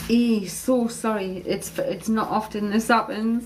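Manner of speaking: slow, choked-up real apology; fighting back real tears, slowly; tearful apology. Real, not acted. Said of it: "and I'm crying".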